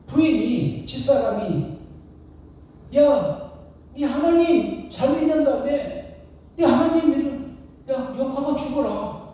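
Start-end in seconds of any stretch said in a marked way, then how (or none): 3.0-9.2 mock a contemptuous wife, pitched up; higher-pitched, jeering challenge; scornful wife. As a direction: taunt him like a scornful wife. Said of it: "욥을 멸시합니다".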